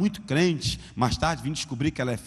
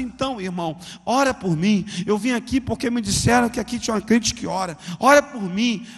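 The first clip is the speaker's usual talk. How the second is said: rising, louder begging; desperate plea; 5 semitones higher, 3 dB louder than usual. Retold or imitated. Mother begs the young man for prayer, pleading louder. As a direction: beg him to pray.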